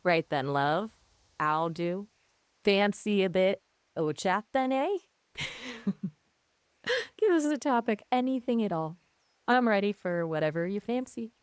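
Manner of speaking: chatty attempt at a Northern English accent. Shown as a demonstration. AI showing off on request, Northern English accent. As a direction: put on a light general Northern English accent. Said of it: "give me a general sort of Northern English accent".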